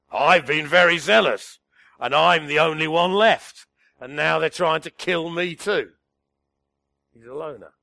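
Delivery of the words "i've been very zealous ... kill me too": a touch of Elijah's loud self-pity; loud complaint. Acted. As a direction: protest loudly, feeling alone.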